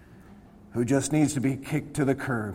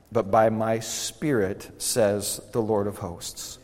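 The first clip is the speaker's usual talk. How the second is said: subdued, measured prayer voice; low-key, reverent praying; closing prayer; 3 semitones lower than usual. Real, not acted.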